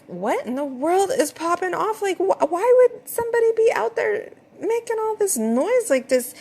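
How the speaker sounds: high, disbelieving what-on-earth; incredulous disbelief. Retold or imitated. Woken at midnight by noise.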